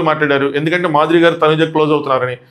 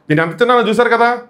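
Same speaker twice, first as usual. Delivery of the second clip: loud demand; 6 semitones higher than usual. Retold or imitated. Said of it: "గట్టిగా అడిగిద్ది".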